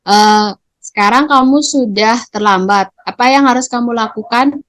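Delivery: teacher offering a choice, not forcing. Shown as a demonstration. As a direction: invite the pupil to choose, unhurried. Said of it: "kalau gurunya berkata".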